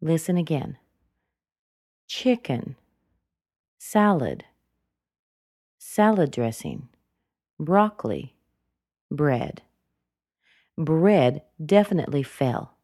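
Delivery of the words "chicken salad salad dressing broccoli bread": each item lifts a little, then drops; rise then fall on each item. Shown as a demonstration. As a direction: lift and drop every word of the list, bread falls. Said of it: "It rose up and it fell down".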